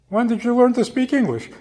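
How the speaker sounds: high, loud, laughing in disbelief; laughing question. Retold or imitated. Granddaughter laughs at her grandmother speaking English, high laughing voice. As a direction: laugh it out, amazed and amused.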